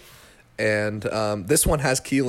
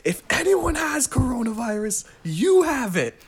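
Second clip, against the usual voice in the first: much higher, half-joking indignant comeback; mock angry retort; 12 semitones higher than usual. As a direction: fire it back at the lady, mock outraged. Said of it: "very mad at this lady".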